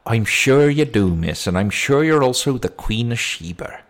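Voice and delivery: lightly voiced copper humouring a threat; sarcastic policeman. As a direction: dismiss her with mock agreement. Policeman brushes off her threat.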